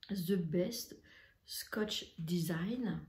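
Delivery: reading the label in a careful English accent, slowing on Scotch Design. Shown as a demonstration. Reading the English brand on the fabric edge, in an English accent. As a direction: try your best English accent on the brand name. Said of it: "Vous remarquerez mon accent".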